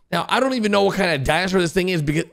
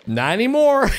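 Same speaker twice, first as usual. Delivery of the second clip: laughing shout; 4 semitones higher than usual. Real, not acted. Bull suddenly grows huge.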